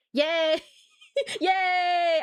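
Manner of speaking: high laughing cheer. Real, not acted. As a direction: cheer for yourself, giddy. Self cheering.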